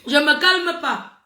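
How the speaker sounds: slow, stubborn angry refusal. Real, not acted. Streamer refusing to calm down, angry. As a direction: drag the words out, refusing to cool off. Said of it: "Je suis trop fâchée".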